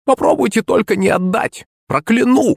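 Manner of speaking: put-on high old crone threatening a curse; a hag muttering a curse; grumbling threat. A narrator's reading. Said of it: "проворчала старуха". (высокая ворчливая угроза старухи)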